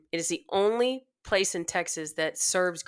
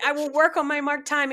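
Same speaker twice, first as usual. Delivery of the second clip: earnest promise; 8 semitones higher than usual. Retold or imitated. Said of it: "I was like".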